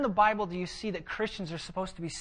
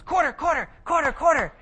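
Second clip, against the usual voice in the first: put-on high, insistent little girl chant; child demanding; 9 semitones higher, 7 dB louder than usual. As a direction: pester like a kid at the gumball machine.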